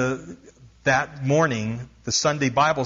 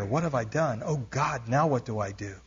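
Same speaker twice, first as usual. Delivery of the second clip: softer, hushed, frightened; fearful inner prayer; 2 semitones lower, 6 dB quieter than usual. Retold or imitated. Missionary praying in fear, hushed and shaken. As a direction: murmur it frozen with fear. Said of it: "paralyzed with fear".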